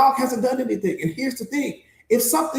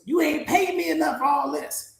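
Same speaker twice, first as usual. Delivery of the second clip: higher-pitched, put-upon complaint; protesting dog; 4 semitones higher than usual. Acted. Dog protesting to its owner about armed intruders, put-upon. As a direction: lightly voice a reluctant guard dog objecting. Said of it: "The dog was like".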